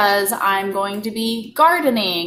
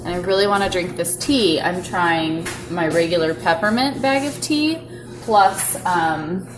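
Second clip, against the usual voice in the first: talking with a sore lip; careful mouth, tender lip; split lip; 2 semitones higher than usual. Real, not acted. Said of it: "the baby busted my lip open".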